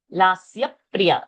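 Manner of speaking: "lasya priya" slow, with a doubled p; doubled consonant. Shown as a demonstration. Teacher pointing out the dvitva, "lasya priya" with doubled p. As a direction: stop on the p between "lasya" and "priya". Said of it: "there is one dvitva over there".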